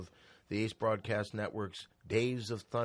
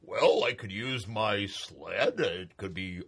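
Santa voice; 2 semitones higher, 5 dB louder than usual. Acted. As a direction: play a hammy Santa Claus.

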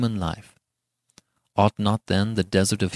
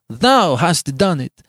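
raised, emphatic tirade; furious passion; 7 semitones higher, 5 dB louder than usual. A narrator's reading. Giovanni blaming Beatrice for poisoning him, beside himself. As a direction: accuse her in a mounting, impassioned rage. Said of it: "beside himself with passion".

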